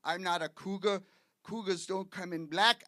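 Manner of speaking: lightly voiced West Indian accent, telling him off; mock indignation in a West Indian accent; imitated West Indian wife. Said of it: "She looked at me and she says".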